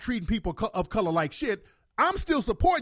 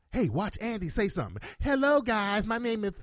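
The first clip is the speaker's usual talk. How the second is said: put-on video intro, softer as it goes; mock clickbait host; 3 semitones higher, 3 dB quieter than usual. Annoyed viewer parodying clickbait video makers, mock intro. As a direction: parody a vlogger's greeting, pitched up then fading.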